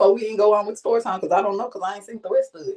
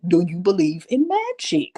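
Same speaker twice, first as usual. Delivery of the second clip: seductive line; 3 semitones lower than usual. Retold or imitated. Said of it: "make your voice sound a certain type of way".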